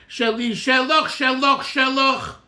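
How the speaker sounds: shelach repeated as a rhythmic, insistent beat; emphasis on shelach. Shown as a demonstration. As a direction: hit "shelach" each time it comes round. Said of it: "And we emphasize".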